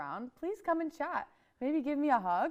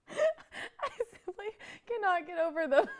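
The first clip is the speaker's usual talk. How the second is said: breaking into a high squeal; high swooning voice; 7 semitones higher than usual. Pretend. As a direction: swoon over him, voice climbing. Gushing over crush, retake.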